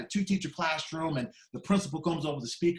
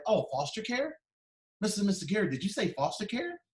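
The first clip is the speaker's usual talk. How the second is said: surprised; 6 semitones higher than usual. Retold or imitated. Counselor surprised at foster care.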